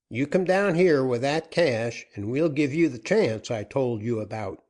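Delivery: a gruff-tempered captain pressing for terms; outlaw captain. Acted. Joaquin makes offer.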